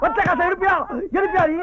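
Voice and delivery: repeated heated demands; angry scolding. Acted. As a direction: scold her with each question. Husband scolds wife in quarrel. (கோபமாக அதட்டல்)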